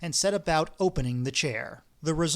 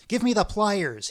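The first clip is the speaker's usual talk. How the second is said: louder, higher shout at his partner; 5 semitones higher, 4 dB louder than usual. Acted. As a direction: shout for the pliers. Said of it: "he shouted to Bender".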